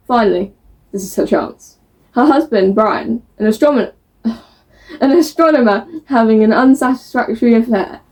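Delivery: even, measured book-blurb read. A narrator's reading. Book vlogger reading a blurb to viewers, measured narration. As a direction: read the back cover out to viewers.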